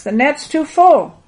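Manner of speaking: high, loud, drawn-out exclamation; excited straining protest. A narrator's reading. Thomas explaining the stuck net, calling out excitedly. Acted struggle with the full net.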